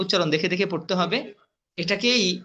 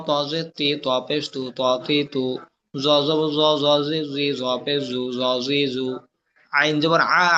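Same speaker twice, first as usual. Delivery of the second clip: spelling drill recitation; 2 semitones lower than usual. Shown as a demonstration. Teacher drilling Arabic letters with vowel marks, chanted recitation. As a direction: recite it as a steady monotone drill.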